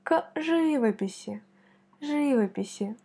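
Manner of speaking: живописи with the first syllable leaned on; stress on the first I. Shown as a demonstration. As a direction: hit the ЖИ of живописи. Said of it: "On met l'accent sur I".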